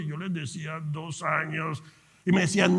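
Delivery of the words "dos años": slow, stretched-out reply; drawn-out answer. Retold or imitated. Answering colleagues who asked his years in business, drawn-out reply. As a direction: stretch both words out at half speed.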